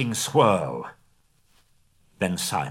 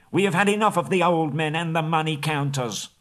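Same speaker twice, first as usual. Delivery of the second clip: raised, higher jeering shout; angry crowd cry; 7 semitones higher than usual. Acted. Townsfolk jeering the master's council, raised. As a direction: jeer at the old men.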